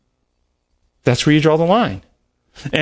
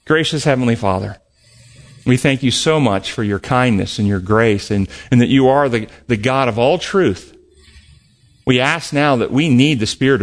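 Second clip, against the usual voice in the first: lower, earnest prayer voice; closing prayer; 3 semitones lower than usual. Acted. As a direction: pray it humbly to God.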